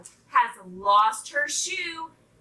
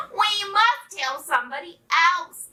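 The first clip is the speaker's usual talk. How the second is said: eager duck; 7 semitones higher, 4 dB louder than usual. A narrator's reading. Excited duck wants to spread news.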